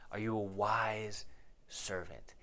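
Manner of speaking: slow, hushed whisper; whispered question. Real, not acted. Pointed question to listeners.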